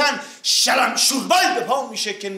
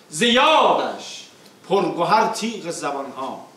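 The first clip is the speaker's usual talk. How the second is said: rhythmic declaimed verse, falling line ends; epic teahouse storyteller; slower than usual. Acted. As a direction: recite the verses with epic weight. Reciting opening verses.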